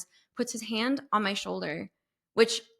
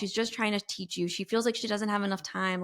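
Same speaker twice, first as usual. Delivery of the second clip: tag; 4 dB quieter than usual. Retold or imitated. Retold stranger's comforting words.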